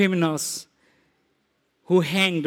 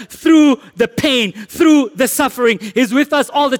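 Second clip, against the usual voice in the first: emphatic proclamation; 3 semitones higher than usual. Real, not acted. Preacher proclaiming God's presence.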